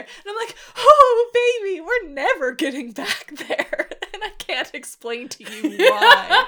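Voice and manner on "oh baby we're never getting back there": loud, high "oh", then knowing dismissal; emphatic mock refusal. Client retorting to her therapist, emphatic mock refusal. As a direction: start high and big, then let her down.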